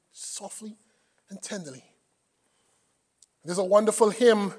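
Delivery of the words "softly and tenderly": hushed, gently spoken words; soft and tender. Real, not acted. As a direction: say it softly, letting the voice drop. Echoes the soft voice described.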